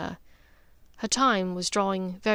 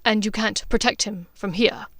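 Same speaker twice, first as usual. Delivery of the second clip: rough; 4 dB louder than usual. Acted. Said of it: "he asked roughly".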